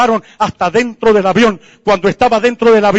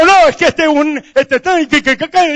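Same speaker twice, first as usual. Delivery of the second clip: flustered stammering; 7 semitones higher than usual. Retold or imitated. Flustered man stammers his excuse.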